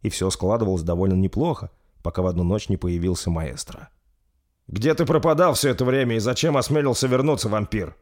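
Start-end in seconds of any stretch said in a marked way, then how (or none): 4.7-7.9 stern king. Acted. King confronts the vampire.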